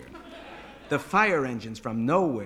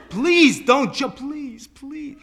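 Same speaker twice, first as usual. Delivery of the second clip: high, loud cry fading on the repeats; anguished high-pitched plea; desperate pleading; 11 semitones higher, 11 dB louder, much slower than usual. Acted. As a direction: beg frantically, then run out of force. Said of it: "no longer was pleading with him not to jump".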